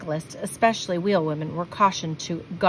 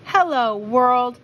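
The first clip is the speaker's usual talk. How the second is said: loud, high, exultant call; joyful roar; 5 semitones higher, 5 dB louder, slower than usual. A narrator's reading. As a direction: shout it to the whole world. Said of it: "she roared".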